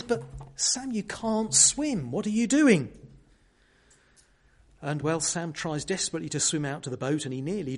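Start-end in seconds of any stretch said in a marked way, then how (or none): 0.0-2.9 worried. Retold or imitated. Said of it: "Frodo begins to get rather worried".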